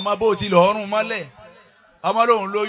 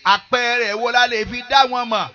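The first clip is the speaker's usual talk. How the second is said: slow, slightly raised sermon intonation; preaching; 5 semitones higher, 3 dB louder, slower than usual. Real, not acted. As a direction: intone it to a congregation, drawing out phrase ends.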